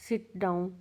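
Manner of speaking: sit down with the pitch dropping to the end; falling command tune. Shown as a demonstration. Teacher demonstrates a simple command with falling tune. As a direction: drop the voice on down like an order. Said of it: "जैसे simple command है ये".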